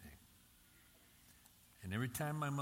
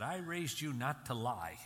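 slow, louder imitation of an angry scolding; retold mad mother; 3 semitones higher, 5 dB louder than usual. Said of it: "Oh, she was mad at me".

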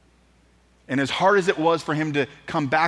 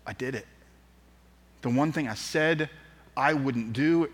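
ashamed; 2 semitones lower, 4 dB quieter than usual. Acted. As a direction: admit it softly, weighed down by shame. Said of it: "in his shame".

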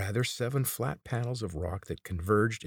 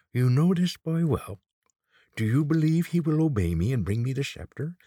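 loud, raised, threatening questions; menacing demand; 8 semitones higher, 7 dB louder than usual. A narrator's reading. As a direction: press her hard, voice raised. Old man interrogates captive Kate.

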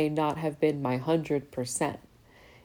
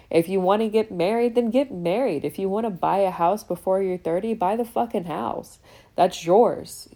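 emphatic urging; 4 semitones higher than usual. Real, not acted.

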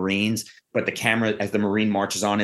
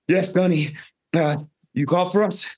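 higher-pitched, winded recruit reporting; acted out of breath; 7 semitones higher than usual. Two recruits report to gunny after sprinting, mock out of breath. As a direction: puff it out like you just sprinted over. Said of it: "they're out of breath".

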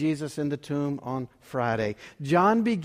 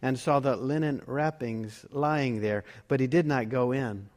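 scripture reading; 2 semitones lower than usual. Acted. Pastor reads the Easter Gospel aloud, in a measured reading voice. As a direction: read the Gospel to the congregation.

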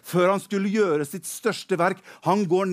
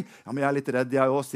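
timid admission; 6 semitones lower, faster than usual. Acted. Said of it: "sier kong Saul".

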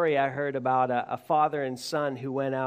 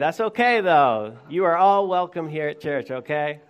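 playful reassurance; 8 dB louder than usual. Real, not acted. Preacher teases congregation late to catch the joke, loud playful reassurance.

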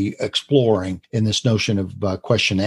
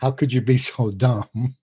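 laughing mock scold. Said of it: "Ray and I could go on like this forever".

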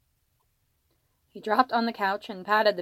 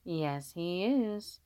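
put-on talking to a baby; 6 dB quieter, much slower than usual. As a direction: croon agreement to a baby. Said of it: "continued to talk to the crying baby".

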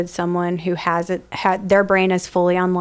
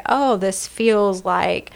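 slow realizing; much slower than usual. Retold or imitated.

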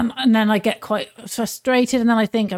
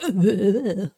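imitated tongue-tied stammer. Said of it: "'cause I can't talk".

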